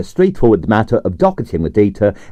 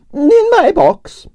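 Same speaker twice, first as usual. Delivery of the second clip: put-on high, theatrical Russian accent with drawn-out vowels; grand Russian ballerina complaining about her night; Russian prima ballerina; 3 dB louder, much slower than usual. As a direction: play the dramatic Russian diva. Arienskaya held voice.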